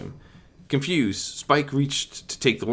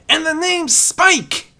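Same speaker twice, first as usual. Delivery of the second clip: high, loud, slow call; a young dragon calling his name through a portal; 9 dB louder, much slower than usual. A narrator's reading. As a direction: shout it back before leaving. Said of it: "he called out".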